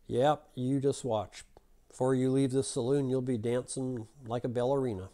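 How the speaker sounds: slow-starting Texan threat; cocky Texan, drawn-out opening; Texan drawl. Acted. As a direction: lightly drawl it like a Texas cowboy. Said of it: "that Texan drawl, right?".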